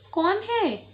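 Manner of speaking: put-on high timid child asking who's there; frightened kid calls through the door; scared small voice. Goat kids, scared of the knock, ask who is there timidly. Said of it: "डरते डरते उन्होंने पूछा".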